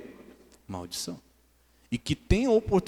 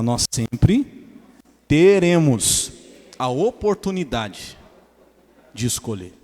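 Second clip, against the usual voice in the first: "nós sempre teremos" drawn out slowly, "teremos" leaned on loud; Portuguese: devagar, marcando "teremos" para a igreja repetir; slow, spaced-out lead for the congregation to repeat; 2 semitones lower, 5 dB louder, slower than usual. Shown as a demonstration. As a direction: call it out slowly for the church to repeat. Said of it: "Fala assim".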